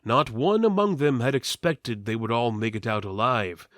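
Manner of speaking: ordinary delivery, nothing marked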